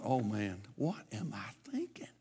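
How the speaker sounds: quiet, low self-reproach under the breath; muttered inner thought. Retold or imitated. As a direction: softly scold yourself, low and hushed.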